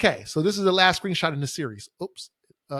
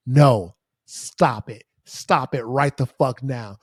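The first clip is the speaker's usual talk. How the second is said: stern scolding; 5 semitones lower, slower than usual. Real, not acted. Scolding ghosters straight into camera.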